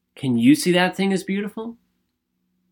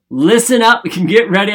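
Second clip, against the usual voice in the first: hyped call; 4 semitones higher, 7 dB louder than usual. Real, not acted. Hyping up listeners.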